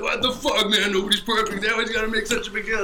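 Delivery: imitating pissed-off buddy. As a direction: retell an annoyed friend's complaint. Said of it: "he got so pissed off".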